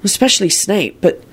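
heartfelt. Acted. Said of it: "speaking more from his heart".

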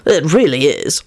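even, unexcited agreement; matter-of-fact. Acted. Lupin backs up Antonin to Arthur, matter-of-fact. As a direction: agree plainly, no drama. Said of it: "told Arthur matter-of-factly".

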